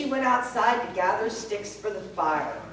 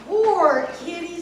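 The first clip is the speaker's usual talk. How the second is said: put-on girl's voice; 5 semitones higher, 5 dB louder than usual. Sasha pities the cat.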